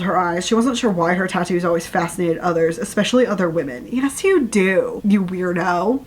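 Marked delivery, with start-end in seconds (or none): 4.0-6.0 slow, drawn-out teasing retort. Real, not acted. Reader scolding a fictional heroine, teasingly. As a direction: draw out YOU DO in mild mockery.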